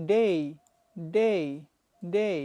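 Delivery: day with a full ei glide; day with Bangla এই ending. Shown as a demonstration. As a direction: end day on a clear ei. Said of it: "it should be".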